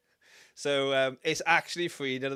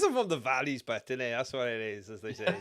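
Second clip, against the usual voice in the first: put-on welsh valleys accent. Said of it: "let's not start speaking in tongues".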